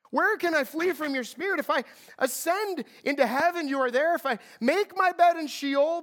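psalm read with rising intensity; déclame le psaume avec ferveur; fervent scripture reading. Acted. Reads psalm aloud with fervor.

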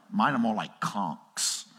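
slow, lightly voiced joking congregant; mock congregant. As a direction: play a member confessing with a grin. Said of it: "Some of you are like".

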